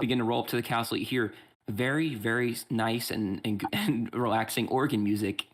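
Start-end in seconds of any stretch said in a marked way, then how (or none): 1.7-5.5 sarcastic. Acted. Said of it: "not relaxing at all. that was sarcasm".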